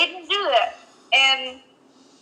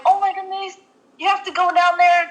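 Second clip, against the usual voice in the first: mom panicking; 6 semitones higher, faster than usual. Retold or imitated. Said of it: "she was crying".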